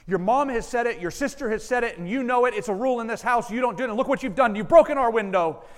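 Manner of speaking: acted tirade of a father whose son broke a window; angry father yelling. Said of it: "and in all of his anger".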